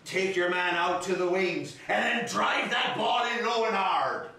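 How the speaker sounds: shouted County Clare brogue from the stands; imitating an Irish dad yelling at a match; Irish father's brogue. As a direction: holler it in a broad Irish brogue. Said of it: "I can hear my father's brogue".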